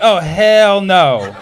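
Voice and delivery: slow, drawn-out oh hell no; mock indignant drawl. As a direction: stretch out the outrage slowly. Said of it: "I was like".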